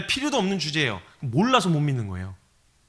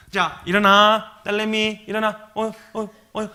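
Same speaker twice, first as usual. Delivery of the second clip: mother calling in short, higher bursts; mock a mom's first wake-up nudges; imitating mom's repeated little prods; hiccup-like wake-up call; 4 semitones higher, slower than usual. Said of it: "딸꾹질 하듯이 꼭 이렇게 깨우시잖아요".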